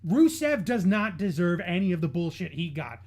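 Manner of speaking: loud, indignant outburst. Real, not acted. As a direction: let the anger out, loud, just short of screaming. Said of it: "I don't wanna scream, but I'm gonna".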